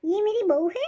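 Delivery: high, theatrical lament; dramatic wail. Acted. Mother-in-law wails over the food.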